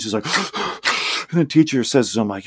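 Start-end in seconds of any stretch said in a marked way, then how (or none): 0.3-1.2 high, voiceless sob-gasps; imitated crying gasps. Crying pupil at the table, imitated sniffly gasps. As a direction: mimic a child catching breath between sobs. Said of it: "and he's crying".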